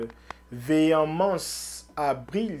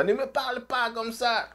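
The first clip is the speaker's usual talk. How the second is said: higher, hammed-up scolding voice "Ne me parle pas comme ça"; higher mock rebuke in Eto'o's voice; Eto'o impression; 8 semitones higher than usual. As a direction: mimic a bossy president telling someone off. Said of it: "il faut être comme ça".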